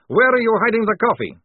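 high, loud frantic interrogation; snarling. A narrator's reading. Maledict demanding coffee from the writer, snarling. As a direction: demand it, pitched right up. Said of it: "snarled Maledict".

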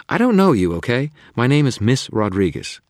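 high, loud, indignant snap; squaring off. Acted. Susan, confronting a man she thinks a stranger, in an indignant high yell. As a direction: put the stranger firmly in his place.

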